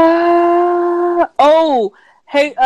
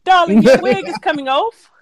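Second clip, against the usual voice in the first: mock Mary Poppins. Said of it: "Mary Poppins".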